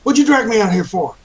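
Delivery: an angry southern yokel's outburst; southern accent. Acted. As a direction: snap it back in a southern accent. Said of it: "I've given him a southern accent".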